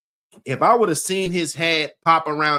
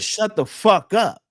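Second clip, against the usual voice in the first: a higher, slow, drawn-out "shut the fuck up"; imitating an angry inmate; 8 semitones higher, slower than usual. Retelling the new cellmate's outburst, imitated high and slow. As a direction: mimic the new guy snapping at the bunk, slow and high.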